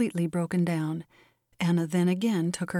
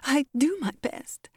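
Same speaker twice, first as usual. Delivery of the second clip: higher, tearful self-defence; trembling voice; 7 semitones higher than usual. A narrator's reading. Crying Molly defends herself to Miss Matilda, trembling. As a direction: protest high and trembling. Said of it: "in a trembling voice".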